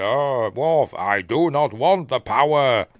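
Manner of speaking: slow, weighty statesman voice, lightly done; Churchill impression. Martok refusing the chancellorship to Worf, slow and weighty. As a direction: intone it like a grand old wartime leader. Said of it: "'Cause it's Churchill again".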